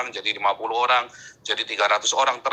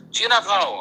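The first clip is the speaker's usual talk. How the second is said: raised-pitch retold jeer; mock taunt; 5 semitones higher, slower than usual. Ejekan di SMP ditirukan. (tiruan ejekan, nada naik)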